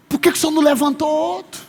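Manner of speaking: high, hurried acted complaint to God; imitated reluctant servant questioning God; reluctant prayer. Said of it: "falar assim".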